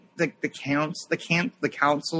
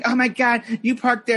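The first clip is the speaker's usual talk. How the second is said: imitated yelling; 6 semitones higher than usual. Woman yelling at a guy who parked in handicap spot, mock yell. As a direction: mimic her indignant outburst. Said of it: "started yelling".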